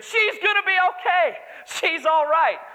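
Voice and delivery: retold joyful screaming. Man in hospital hallway announcing his wife will live, joyful shout. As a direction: shout the good news down the hallway. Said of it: "a man came out screaming".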